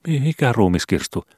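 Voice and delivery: stumble, play dumb; stammering son. Acted. Son feigning ignorance to his father: high stammer.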